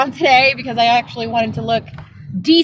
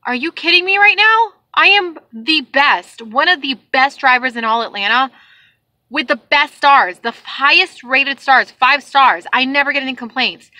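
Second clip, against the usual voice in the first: retelling an indignant rant at a customer; indignant retort. Retold or imitated. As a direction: tell her off, proud and fed up. Retold heated quarrel with customer.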